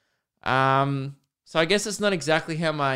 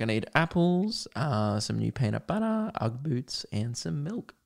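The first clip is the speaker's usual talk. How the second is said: mock shopping list; 6 dB quieter than usual.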